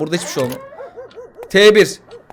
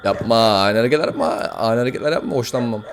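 mock menacing low voice; 11 semitones lower, 7 dB quieter than usual. Warning someone in lowered voice.

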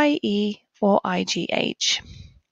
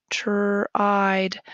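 whisper. Shown as a demonstration. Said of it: "whispered repeat of word".

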